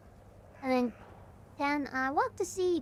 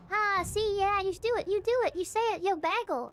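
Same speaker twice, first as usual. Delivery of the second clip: higher, excited imitation of accusers; mock accusing; 6 semitones higher than usual. People catching the streamer's accent, mock gotcha excitement. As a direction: pounce on it as if catching someone out. Acted accusers in retold bagel argument.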